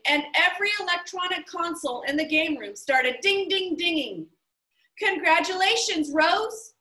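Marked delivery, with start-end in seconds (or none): 5.0-6.8 higher, louder joyful congratulation; excited cry. A narrator's reading. Host congratulating Rose on leaving, excited cry. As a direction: burst out in delight. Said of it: "cried Mister Lemoncello".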